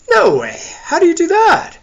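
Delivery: high, loud amazed character voice; astonished, pitch shooting right up. Acted. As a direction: exclaim in high-pitched disbelief. Listener amazed at wine technique.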